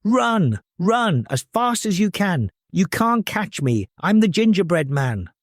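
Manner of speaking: high, teasing sing-song; cheeky. Acted. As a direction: taunt them cheekily. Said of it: "called back with a cheeky grin".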